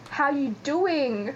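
drawn-out bad Italian-accented catchphrase; weird Italian accent. Imitating Blair's Joey impression from Friends, weird Italian accent. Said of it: "he says in this weird Italian accent".

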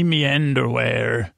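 slow, lightly voiced swashbuckler; a hint of seafaring adventurer, drawn out. Shown as a demonstration.

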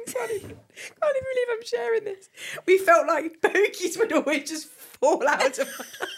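high voice breaking up with laughter; helpless laughing. Real, not acted. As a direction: struggle to confess it through real giggles. Embarrassed confession, cracking up.

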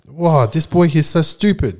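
imagined disbelief. Retold or imitated. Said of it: "she's probably like".

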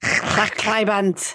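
"Clachaibant" drawn out, with throaty ch; Welsh pronunciation. Shown as a demonstration. Host copying a Welsh swear word, "Clachaibant" said slowly.

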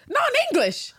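high, loud scandalised repeat of "Non-English"; mock outrage. Real, not acted. Repeating a friend's gaffe in high, loud mock outrage. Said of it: "you probably just pissed off thirty Brits".

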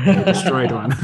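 chuckling through the words; laughing. Real, not acted. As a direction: laugh as you say it. Amused remark about destroyed camera.

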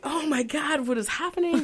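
high, overwhelmed retelling of tearful disbelief; retold tearful overwhelm. Singer recalls her standing ovation, retold tearful overwhelm. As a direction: squeal it high, as if overcome by the applause. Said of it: "like, crying".

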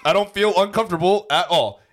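high, loud, gushing declaration; hammed-up happy realisation; imagined delight. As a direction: proclaim it with mock rapture. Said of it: "And you're like".

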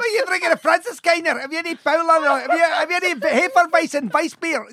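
high, playful Scottish drinker voice; mock Scottish accent. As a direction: join the bit in a high put-on Scots. Joins in the Scottish drinker bit.

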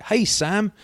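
high chummy greeting. Retold or imitated. Commuter greeting the train company's Sam in a high, chummy voice. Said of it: "He'd be like".

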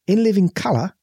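high, slow and stretched Michael Caine voice; slow Michael Caine impression. Shown as a demonstration. Hamming up Michael Caine for his friend, slow and high. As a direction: drawl out the name in a caricatured Caine voice. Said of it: "My name is Michael Caine".

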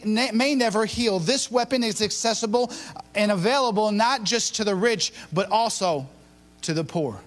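measured, building oratory; emphatic preacher's delivery, each phrase weighted; dramatic sermon opening. Real, not acted. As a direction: set up a grave riddle for the congregation.

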